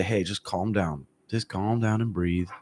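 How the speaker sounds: slow, soothing corner voice; calming corner talk. Shown as a demonstration. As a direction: settle a gassed fighter down, slowly. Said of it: "gotta give the first thirty seconds to say".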